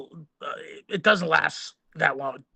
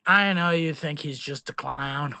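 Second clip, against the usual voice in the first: put-on drunk slurring; 2 semitones lower than usual. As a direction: slur it like you're hammered. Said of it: "You're hammered, slurring your words".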